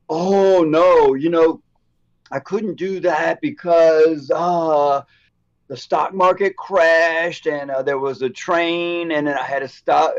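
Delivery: whiny, slow mock excuse-making. Mocking someone making lame excuses, a whiny excuse voice. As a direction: drag out the lame excuses in mockery. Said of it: "What I hate is when somebody's like".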